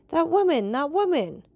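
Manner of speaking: high, loud and urgent, repeating in shock; as if he'd seen a ghost; alarmed recognition. Acted.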